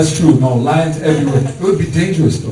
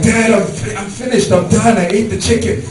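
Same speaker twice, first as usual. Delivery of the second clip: put-on eager kid; 5 semitones higher than usual. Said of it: "I'm like".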